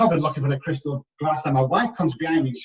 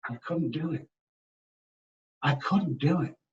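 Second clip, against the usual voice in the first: barely audible, holding back tears; real grief caught in the throat; choked up; 7 dB quieter than usual. Real, not acted. Father recalling his daughter's plea, voice near breaking.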